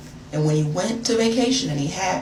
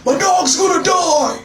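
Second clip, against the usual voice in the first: hammed-up blubbering about a dying dog; mock crying boyfriend; 12 semitones higher, 7 dB louder than usual. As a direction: whine it like a grown man sobbing over his dog. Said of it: "He was like".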